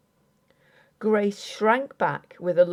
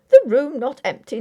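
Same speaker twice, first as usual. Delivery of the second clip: incredulous; 6 semitones higher, 9 dB louder than usual. A narrator's reading. Husband incredulous.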